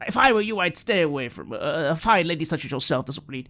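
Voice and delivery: bustle in as a cheery doctor; jovial doctor. Acted. GM voices Doctor Luigi Parvot.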